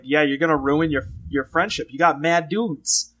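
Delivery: put-on sister's voice in a light New York accent; thick New York accent, lightly done.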